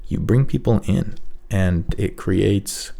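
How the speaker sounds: calm and soft, with space between phrases; calm tonality. Shown as a demonstration. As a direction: draw the listener in gently. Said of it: "if you have a calm tonality".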